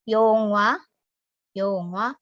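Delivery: Yongwa with the w only lightly said; faint sound. Shown as a demonstration. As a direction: blur the wa in Yongwa. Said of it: "hanya dibaca samar". (Yongwa dengan bunyi samar)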